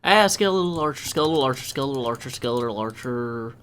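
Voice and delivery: panicked repeated warning, fading as it goes; alarmed outburst. Real, not acted. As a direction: blurt it out startled, then ease off. Sudden enemy attack in the game.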